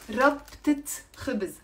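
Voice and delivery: "ربطة خبز" said clearly with a final t on ربطة; modelled pronunciation. Shown as a demonstration. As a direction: say "ربطة خبز" for learners, linking t sounded. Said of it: "pronounce it with me".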